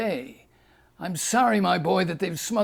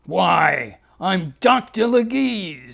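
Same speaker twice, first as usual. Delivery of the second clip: Doctor Leguise; 3 semitones higher, 4 dB louder, slower than usual. Acted. Doctor Leguise introduces himself.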